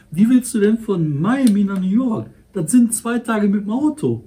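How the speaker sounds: exasperated rant; indignant outburst. Real, not acted.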